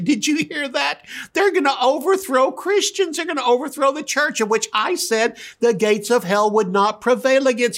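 high, amused voice of God scoffing; a father chuckling at a silly plot. Retold or imitated. God the Father to Jesus, high and amused.

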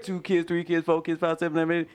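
rattling off numbers like an auctioneer; auction caller. Shown as a demonstration. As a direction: call it out like an auction. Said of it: "just doing it like that".

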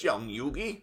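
imitating a cartoon grandpa; impression of Grandpa. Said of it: "usually he talks like this".

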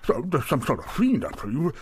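stammering alarm rising to a loud, high question; jittery innkeeper fearing company; nervous tavern keeper. Acted. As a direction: grow anxious, voice climbing at the end. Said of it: "gets nervous".

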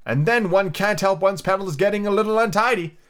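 high, mildly patronizing sympathy; kindly. A narrator's reading. The Rose telling Alice she is fading, high kindly tone. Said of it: "the Rose added kindly".

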